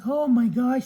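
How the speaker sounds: high, relieved Tin Man; storyteller voicing a high grateful Tin Man. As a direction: pitch up as the freed Tin Man.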